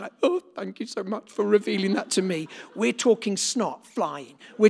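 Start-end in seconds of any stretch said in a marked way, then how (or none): 0.2-2.5 prim, polite mock thanks; overly genteel, a hint of put-on politeness; hammed-up polite thank-you; mock dignified gratitude. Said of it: "Not dignified crying".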